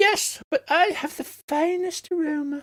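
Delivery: tiny, small, squeaky voice, very high. The narrator voices a talking flower answering another flower: small squeaky flower voice. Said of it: "a small squeaky voice".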